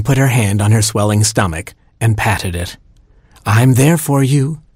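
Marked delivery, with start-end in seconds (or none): 3.5-4.6 put-on higher, slow and gentle to the unborn child; tender to the baby. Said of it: "she said to the baby inside".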